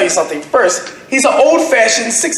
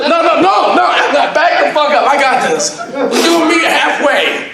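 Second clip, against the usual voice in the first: mock haggling shout; 4 semitones higher than usual. Haggling over a deal, mock yell.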